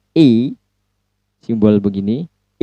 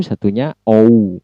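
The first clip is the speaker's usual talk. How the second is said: "O" said as American ou, starting rounded o. Shown as a demonstration. Teacher contrasting American with British vowels. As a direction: give "O" the American glide from o to u. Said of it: "ketika logat atau accent American".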